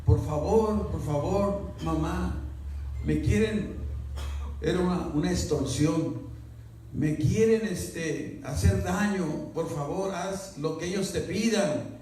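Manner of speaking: mock the caller begging her mother tearfully; imitating crying girl. Extortion caller pretending to be the daughter, mild mock pleading. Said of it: "estaba llorando y clamando".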